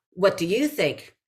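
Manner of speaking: pointed, loaded question; committed offer. Shown as a demonstration. Coach showing an improviser's question as an offer, pointed and playful. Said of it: "it looks like an offer".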